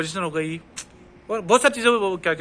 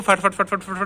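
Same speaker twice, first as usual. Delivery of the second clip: rapid-fire. Shown as a demonstration. Imitating automatic fast speech.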